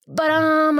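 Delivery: high sung-out doorbell chime; imitated doorbell. Date arrives at the door, imitated doorbell chime. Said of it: "that's how the doorbell goes".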